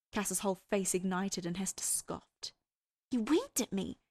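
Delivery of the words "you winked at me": higher, mildly scandalized character voice; scandalized breathing. A narrator's reading. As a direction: breathe it out, a touch shocked. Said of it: "she breathed, scandalized".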